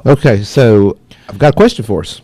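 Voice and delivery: muffled voice, like through a cloth; muffled sound on the mic. Real, not acted. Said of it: "I just sound, like, muffled".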